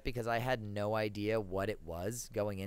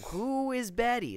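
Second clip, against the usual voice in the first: shocked; 13 semitones higher, 4 dB louder, slower than usual. Retold or imitated. Shocked question to grandma.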